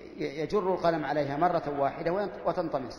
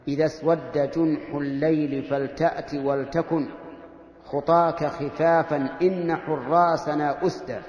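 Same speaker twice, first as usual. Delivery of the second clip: poetry recitation; slower than usual. Shown as a demonstration. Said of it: "يقول الشاعر".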